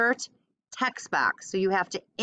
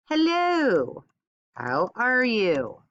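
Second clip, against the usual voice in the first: cheery character voice; 2 semitones higher, much slower than usual. Acted. Typing a character's greeting.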